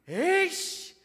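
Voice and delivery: high, loud angry curse; teen cursing. Retold or imitated. Son swearing at his father in a rage. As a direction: spit out the curse like a furious teen. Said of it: "S로 시작하는 뭐 나쁜 말".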